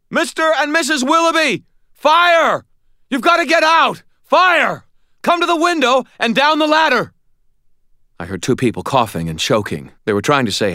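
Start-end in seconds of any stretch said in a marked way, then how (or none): 0.1-7.1 high, loud strangled warning; strangled shout. A narrator's reading. Shouting to trapped neighbours through smoke, strangled high shout. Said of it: "my voice strangled as I tried to shout".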